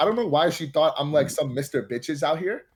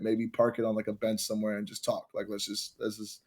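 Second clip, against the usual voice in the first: fading dreamy; 4 semitones lower, 7 dB quieter than usual. Retold or imitated. Dreamy imagined date, fading.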